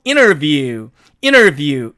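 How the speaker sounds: interview said as innerview, t dropped; native reduction. Shown as a demonstration. Teacher models the native form to students. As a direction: drop the t in interview. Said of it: "이렇게 발음이 된다는".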